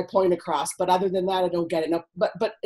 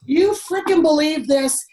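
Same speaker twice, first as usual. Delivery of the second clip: retold indignant rant; 5 semitones higher, 4 dB louder than usual. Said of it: "I would tell my friends".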